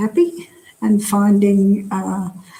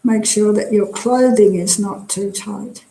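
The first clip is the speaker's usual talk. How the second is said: calm, measured meditation guidance with long pauses; guided meditation. Real, not acted. Teacher leading a drop-in group through a body scan, guided meditation. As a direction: guide them gently through relaxing, leaving space after each phrase.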